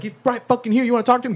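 high, exasperated mock retort; retold irritation. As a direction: imitate an irate man on the phone. Retold irate man on phone.

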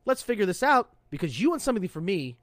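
mild mock yell, rising as it goes; retold yelling. Sailor confronting admin staff who ignored him, mild retold yell. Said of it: "and I yelled".

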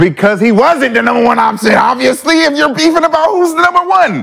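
heated shout. Real, not acted. Shouting down his co-host over Jordan, heated and high. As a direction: yell it to win the argument.

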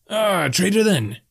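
high, drawn-out delight; jovial innkeeper, pleasantly surprised; pleased barkeep. A narrator's reading. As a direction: stretch it out high and happily. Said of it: "He seemed more than happy to hear that".

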